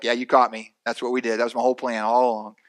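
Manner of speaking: low, dry mock confession; sarcastic. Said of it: "my sarcasm would come out".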